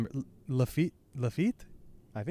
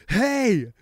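loud, higher screamed call; Garp; 7 semitones higher, 5 dB louder than usual. Acted. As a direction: yell to get his attention. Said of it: "Garp is screaming".

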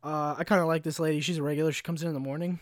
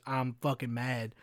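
mad; 4 semitones lower, 5 dB quieter, slower than usual. Retold or imitated. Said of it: "his demeanor was".

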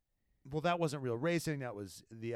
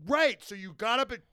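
sarcastic; 8 semitones higher, 5 dB louder than usual. Retold or imitated. Sarcastic quoted retort.

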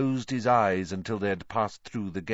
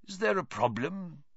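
high, gentle-volume mild inquiry; 8 semitones higher, 4 dB quieter than usual. A narrator's reading. Professor Lupin interrupting Malfoy's taunts, mild voice. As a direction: step in mildly with a question. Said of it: "said a mild voice".

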